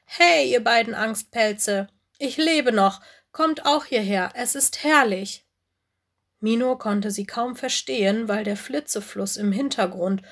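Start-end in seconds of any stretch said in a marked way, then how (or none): 0.1-5.5 calling out. Acted. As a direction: shout cheekily to the two scaredy-cats. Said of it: "Sie rief". (Lola ruft den zwei Angstpelzen laut und keck zu)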